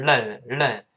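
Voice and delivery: "len" with a Chinese pinyin tongue flick; wrong flicked L. Shown as a demonstration. Teacher shows what to avoid, "len" with flicked l. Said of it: "舌头没有弹射这个动作".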